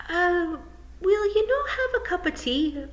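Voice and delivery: high, hesitant Scots pixie; stalling nervously; worried Feegle chief. Acted. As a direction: Rob Anybody uneasy. Rob Anybody stalling.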